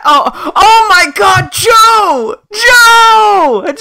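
high, drawn-out scream of real amazement; stunned excited shout. Real, not acted. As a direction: shriek the name high and loud. Stunned by a big donation.

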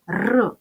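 "р" as a bare hard rolled r; isolated consonant sound. Shown as a demonstration. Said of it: "Називаємо приголосні звуки".

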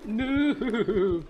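loud high panicked scream; scared scream. Real, not acted. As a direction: scream as it grabs you. Caught by monster in game.

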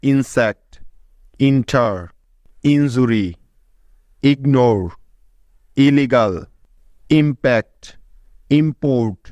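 ইনসেক্ট, ইন্টার, ইনজুরি each said alone, opening on English short i; English example words. Shown as a demonstration. Teacher reads students ইনসেক্ট, ইনজুরি, word by word. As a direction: read ইনসেক্ট to ইম্পোর্ট one at a time, each with a short i at the start. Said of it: "যেমন".

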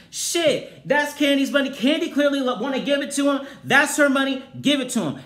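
high, loud exasperated outburst; indignant yelling. Real, not acted. Shouting about Kandi's money, indignant. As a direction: insist it's hers, loudly.

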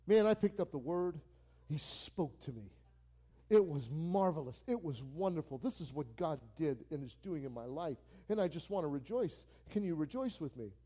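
lively, joyful, rising to rejoicing; excited testimony. Retold or imitated. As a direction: share good news with a buddy, overjoyed. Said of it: "Tell them everything that Jesus is doing".

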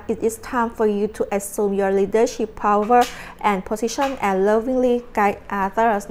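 reads the card's English text very slowly and deliberately; measured, drawn-out oracle reading. Acted. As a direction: spell out each word of the card like an oracle. Reading tarot card text aloud.

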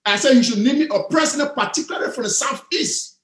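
measured, spaced-out explanation; slowing down. Real, not acted. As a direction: spell the point out phrase by phrase. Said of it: "maybe I'm talking too fast".

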